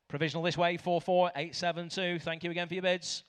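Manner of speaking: auctioneer. Real, not acted. Auctioneer calling bids.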